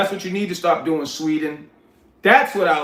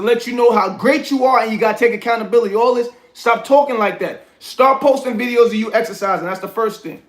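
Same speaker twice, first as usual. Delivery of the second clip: worked-up, higher-pitched telling-off; stern scolding; 3 semitones higher than usual. Real, not acted. Streamer scolds a chatter for talking himself down, stern scolding. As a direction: get on his case like a tough father.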